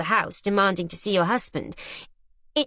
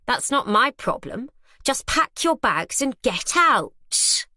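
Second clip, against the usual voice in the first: cold dismissal; 5 semitones higher, slower than usual. Acted. Arabella dismissing her.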